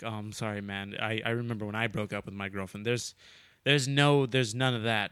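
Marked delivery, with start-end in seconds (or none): 0.0-2.8 softer, sincere-sounding consoling friend; mock sympathy. Friend imitates a guy consoling his heartbroken buddy, soft and sympathetic. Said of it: "being like".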